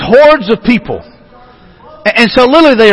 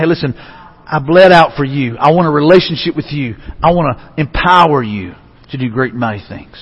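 low, soft voice of a loving God; quiet, earnest personal appeal; tender appeal; 5 semitones lower, 3 dB quieter than usual. Acted. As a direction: gently invite them closer, unhurried. Voices God calling to the listener.

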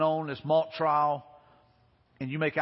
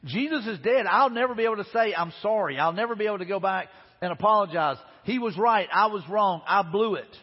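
raised, higher and louder, desperate regret; anguished inner voice of Peter, higher and louder; Peter's anguished thoughts; 3 semitones higher, 4 dB louder than usual. Retold or imitated. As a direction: cry out Peter's remorse, rising and loud. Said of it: "so Peter's probably thinking".

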